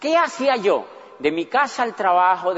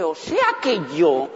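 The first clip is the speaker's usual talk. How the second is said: dawning horror played for laughs; mock disbelief; 7 semitones higher, slower than usual. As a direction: burst out laughing at your own foolishness. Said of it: "yo dije".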